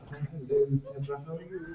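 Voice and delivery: soft, suave British RP greeting; British received pronunciation. Acted. Introduced to concierge's colleague, soft British RP. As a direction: greet her quietly in British RP. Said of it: "start doing this bashful voice".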